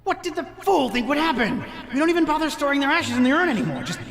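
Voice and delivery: high, fervent zealot reading his diary; sinister cultist voice. Acted. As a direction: read it like a devoted cult member.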